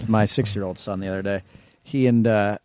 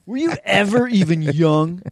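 high, whiny mock teenager insulting dad; bratty teen son; 7 semitones higher than usual. Cohost joins the joke, voicing the grown son as a whiny teen. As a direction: sneer it like a moody teen.

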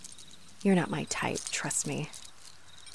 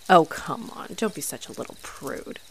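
teasing whisper. Acted. Teasing flirt.

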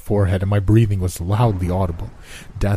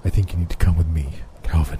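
lower, measured voice of Death; Death's voice; 3 semitones lower, faster than usual. Acted. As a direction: speak as calm, cold Death. Death speaks to Calvin.

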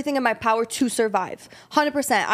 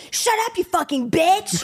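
put-on higher, drawn-out crotchety old smoker; imitated cussing old lady; 6 semitones higher than usual. Old lady cussing out another driver, crotchety. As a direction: do a mock cranky old woman, slow and higher. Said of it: "in her late eighties, holding a cigarette, smoking".

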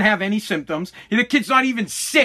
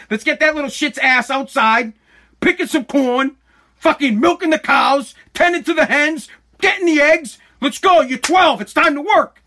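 building rant; 4 semitones higher than usual. Acted. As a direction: get more worked up line by line. Ranting dad building up.

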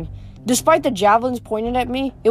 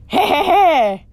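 high, loud, slow hooting laugh; goofy laugh; 8 semitones higher, 5 dB louder, slower than usual. A narrator's reading. Dim bear twin laughing at his brother's joke, hooting. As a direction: cackle like a dim brute. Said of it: "brother Aureus laughed".

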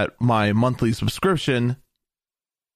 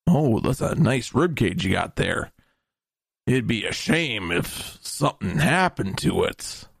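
smiling menacing loan shark; 4 semitones lower than usual. Acted. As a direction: purr the threat like a shakedown. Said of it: "mafia-style shakedown".

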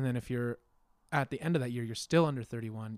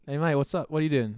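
loud, higher, badly faked Aussie; horrible Australian accent; 4 semitones higher, 8 dB louder than usual. Acting out a favorite Australian phrase, bad Australian accent. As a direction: greet a mate in a hammed-up Australian accent. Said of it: "a horrible Australian accent".

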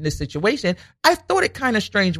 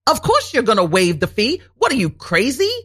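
incredulous inner voice; 4 semitones higher than usual. Retold or imitated. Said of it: "But in my mind".

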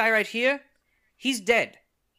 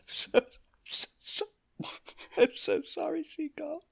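hammed-up grief; 12 semitones higher, 5 dB louder than usual. Mourning dead crab companion.

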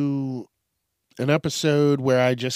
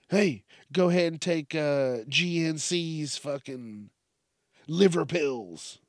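mocking quote. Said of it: "this son of a bitch was like".

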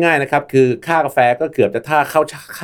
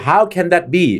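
How can that be, pitched up, stress on how; incredulous; 5 semitones higher, much slower than usual. Shown as a demonstration. Imitating people twenty years ago hearing coffee prices, incredulous. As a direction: sound like you can't believe it. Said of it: "ภาษาอังกฤษคือ".

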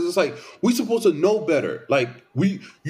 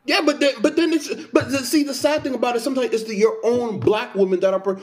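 heated; 5 semitones higher than usual. Real, not acted. Heated argument with co-host.

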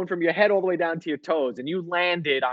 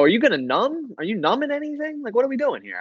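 higher, pleading mock panic; a patient dreading the procedure, hammed up; panicked questions; 7 semitones higher than usual. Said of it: "I go".

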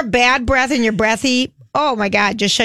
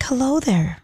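failed breathy try; 4 dB quieter, slower than usual. Shown as a demonstration. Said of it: "No, that's not breathy".

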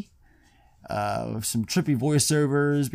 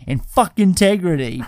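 mock defiant yell; 6 semitones higher, 6 dB louder than usual. Sean's punchline retold.

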